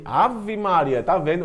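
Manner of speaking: normal talking voice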